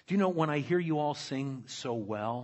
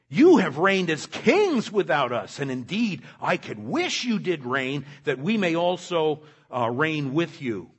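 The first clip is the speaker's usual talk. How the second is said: louder mock-longing praise; wistful fake envy, laid on; sarcastic; 7 dB louder than usual. Paul sarcastically wishing to reign with the Corinthians. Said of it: "catching the sarcasm".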